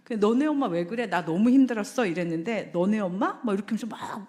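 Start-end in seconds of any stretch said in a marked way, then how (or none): 0.2-2.0 a tired, aggrieved complaint; complaining wife. Retold or imitated. Wife complains to husband in the car, aggrieved. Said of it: "자매가 차에서 말을 합니다". 2.7-3.4 mock-offended echo of the phrase; annoyed husband. Husband snapping back at wife in the car, mildly offended. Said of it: "화를 내고 이상한 소리를 하고".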